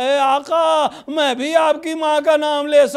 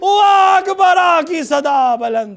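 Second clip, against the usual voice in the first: higher and louder, building to a wailing cry; impassioned majlis preaching; 4 semitones higher, 5 dB louder than usual. Acted. Preacher crying out Karbala's tragedy to mourners, building to a wailing climax. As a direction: preach it at full force, rising to lament.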